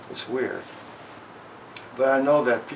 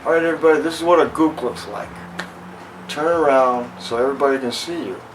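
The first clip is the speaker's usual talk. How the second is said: drill instructor addressing class; 2 semitones higher, 4 dB louder, faster than usual. Retold or imitated. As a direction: announce it to the whole room like a sergeant. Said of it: "and he goes".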